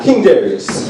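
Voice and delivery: grand royal announcement of King Darius; announcing the king. Shown as a demonstration. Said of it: "y'all be like".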